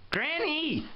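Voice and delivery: high-pitched, drawn-out call; high, impatient holler for someone who isn't listening; insistent call. Acted. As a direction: call out sharply to get her attention. Calling Granny louder, third try.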